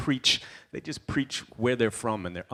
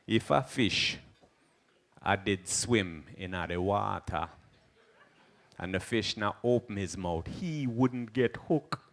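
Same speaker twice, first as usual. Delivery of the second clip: a hint of a calm Rasta elder teaching; slow Rasta musing; lightly voiced Rasta sage; slower than usual. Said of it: "he'll be like".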